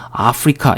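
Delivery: 아프리카 starting with an open "ah"; Koreanized first vowel. Shown as a demonstration. Teacher citing learners' mistake, 아프리카 with initial ah. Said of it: "이렇게 하시는 분들은 지금".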